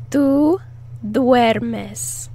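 teacher splitting tú duermes; split model. Shown as a demonstration. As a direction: separate tú from duermes. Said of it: "split model".

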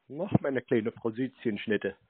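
slow, soft mock-cooing pet name; syrupy teasing pet name, drawn out; mock sweet talk. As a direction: coo it like a sarcastic lover. Baiter coos pet names at hold line.

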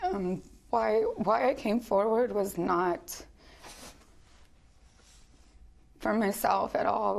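choked up, soft and halting; holding back tears, long pauses; emotional. Real, not acted. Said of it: "sorry, I'm just emotional today".

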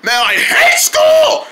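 put-on high, drawn-out kid yell; high-pitched childish protest; whining kindergartner. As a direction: holler it slowly like a fed-up kindergartner. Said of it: "Like they say in kindergarten".

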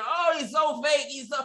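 mocking. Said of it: "Hollywood making fun of Kyle Rittenhouse and saying".

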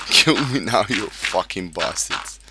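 loud, then drawn out slowly on the insult; defiant shout. Real, not acted. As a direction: yell the dare at the monsters. Taunts creepers, repeats louder.

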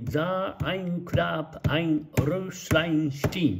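stamp out every syllable like a Japanese classroom; every syllable pronounced. Shown as a demonstration. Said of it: "すべての音節に".

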